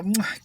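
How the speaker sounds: a kiss blown at the screen; air kiss. Shown as a demonstration. Blowing a kiss at cute guys on TikTok. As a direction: smack a kiss through the camera. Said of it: "You just wanna go".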